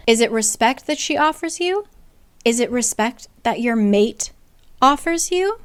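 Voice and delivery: lightly voiced scornful Nesta; mocking challenge. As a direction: sneer it back at her. Nesta sneering at Feyre's respect.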